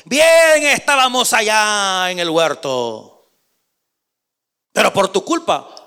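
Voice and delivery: slow, reproachful wife; a hint of a complaining wife; nagging Eve. Eve blaming Adam for the garden, reproachful. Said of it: "Eva le habrá reclamado".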